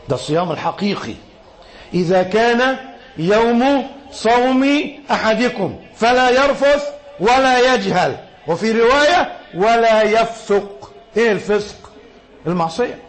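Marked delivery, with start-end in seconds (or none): 1.9-10.9 hadith recitation. Acted. Recites hadith in classical Arabic.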